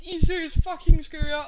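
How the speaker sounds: loud excited outburst to the chat; overwhelmed shout. Real, not acted. Streamer thanking the boys for subs, loud overwhelmed shout. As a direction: let the disbelief burst out loud.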